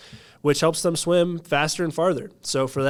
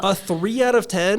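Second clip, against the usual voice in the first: stunned, pitch jumps higher on out; surprised question; 6 semitones higher, 4 dB louder than usual. Real, not acted. Incredulous reaction to harsh rating.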